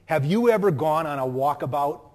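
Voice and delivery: light Minnesota accent. Shown as a demonstration. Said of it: "with my Minnesota accent".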